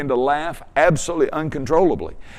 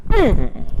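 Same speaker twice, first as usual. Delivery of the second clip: brief high "mm" through gritted teeth; strained grunt, teeth clamped; 5 semitones higher than usual. Retold or imitated. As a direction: re-enact a pained, straining hum. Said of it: "I'd grit my teeth".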